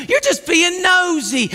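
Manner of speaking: high, drawn-out accusing taunt; belittling taunt. Acted. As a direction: needle him like a big brother. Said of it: "why you gotta say it like that".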